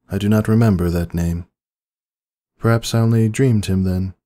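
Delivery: a high, fretful princess voice; Luna's worried voice. A narrator's reading. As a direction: ask with anxious care. Luna voiced in story.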